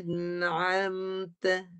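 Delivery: "An'amta" very slow, hamzah at the start; hamzah, not ain. Shown as a demonstration. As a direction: model "An'amta" slowly, each sound drawn out. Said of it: "jangan guna ain".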